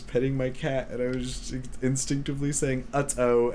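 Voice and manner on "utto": cat voice. Shown as a demonstration. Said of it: "I'm in my cat voice".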